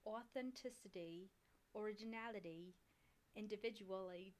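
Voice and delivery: careful, tentative Australian accent. Shown as a demonstration. Reading the overview for a friend, attempted Australian accent. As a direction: read word by word in attempted Australian. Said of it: "read something in Australian".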